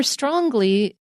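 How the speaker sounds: Long Island accent, "strongly" ending with a hard g sound, strongg-ly. Real, not acted. Host slips into a Long Island accent with a hard g on "strongly". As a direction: slip the Long Island g into "strongly", saying the g after the ng. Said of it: "I got the Long Island G in there".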